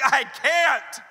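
high, loud strained protest; exhausted player. Acted. Exhausted player answering coach at practice, wailing protest. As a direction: wail back at the coach. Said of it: "you're, like, exhausted".

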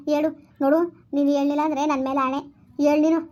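insisting. Acted. Mother-in-law insists she tell.

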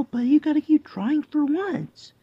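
breathy whispered aside to the pet. Real, not acted. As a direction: drop to a whisper mid-sentence.

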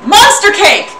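real laughing exclaim; laughing cry. Real, not acted. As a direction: shout it out laughing. Laughing at an emote.

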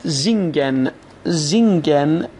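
زینگن opening on a buzzed z. Shown as a demonstration. Teacher shows s before i, زینگن starting with z. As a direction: model زینگن with a clear initial z. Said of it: "بعد از اس ای اومده".

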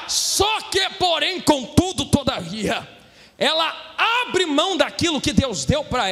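full-force sermon delivery; impassioned Brazilian pulpit preaching; fervent preaching. Real, not acted. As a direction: preach it hard to the congregation, stretching key phrases.

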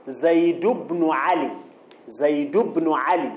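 "زيد بن علي" joined as "Zaydu-bnu Ali"; no tanween. Shown as a demonstration. Teacher demonstrating dropped tanween, "زيد بن علي" said "Zaydu-bnu Ali". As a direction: link "زيد" to "بن" by u, with no n. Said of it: "بلا تنوين".

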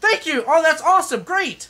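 high, chirpy thank-you; brightly polite, a little laugh. Shown as a demonstration. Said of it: "what does polite sound like then".

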